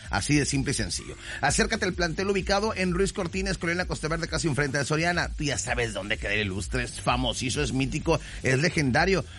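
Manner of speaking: upbeat announcer pitch, selling hard; radio ad read. Acted. Radio host pitching a school to listening parents, lively ad read.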